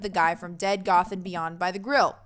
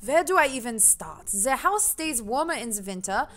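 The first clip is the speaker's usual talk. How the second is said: lightly attempted German accent; a hint of shaky-footed German accent. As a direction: read it as a German gentleman. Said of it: "I can do German!".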